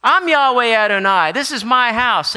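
loud, high commanding proclamation; fierce divine claim, ringing out; Jesus declaring. Retold or imitated. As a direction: thunder it out as the owner of the temple. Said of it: "and he says".

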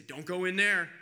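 loud mock warning from a protester; a protester shouting to churchgoers, mock loud warning; imitated picket shout. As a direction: call out like a picketer at the door. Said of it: "Maybe they'd say".

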